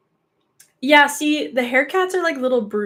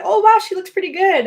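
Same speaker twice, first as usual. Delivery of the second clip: mock onlooker voice; 9 semitones higher, 7 dB louder than usual. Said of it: "She's like".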